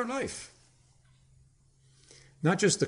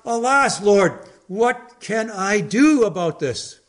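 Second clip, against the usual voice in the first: a higher, pleading "Alas" that slows into the question; despairing cry; 7 semitones higher, 4 dB louder, slower than usual. Retold or imitated. Preacher voicing the despairing believer crying out to the Lord, lightly pleading. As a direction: plead with God in mild despair. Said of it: "we first despair when we cry out".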